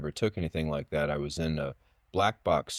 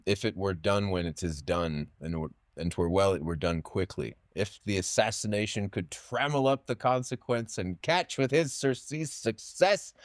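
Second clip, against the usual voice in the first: reciting Macbeth; 3 semitones higher than usual. Shown as a demonstration. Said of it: "what I did for him was".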